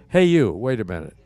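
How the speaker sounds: mildly hollered "hey you"; retold holler. Manager stopping an applicant at the door, mild holler. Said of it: "wouldn't have hollered at you".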